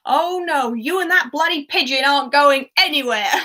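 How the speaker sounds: loud, exaggerated angry refusal; angry uncle. Acting Uncle Vernon refusing Harry angrily.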